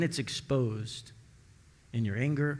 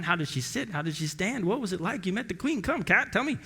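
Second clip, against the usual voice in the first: rising higher and higher, begging; pleading excitement; 7 semitones higher than usual. Acted. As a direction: build up into an eager plea. Owner begging cat for details.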